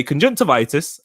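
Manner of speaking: conjunctivitis as a Geordie demo; demonstrating a Geordie lilt; Geordie accent. Shown as a demonstration. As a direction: say it so it comes out Geordie. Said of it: "it comes out Geordie".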